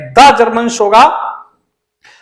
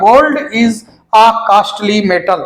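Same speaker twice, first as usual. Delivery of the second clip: slow corrected version; 3 semitones lower, much slower than usual. Shown as a demonstration. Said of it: "ये gold ही रहेगा".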